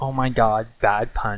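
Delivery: normal talking voice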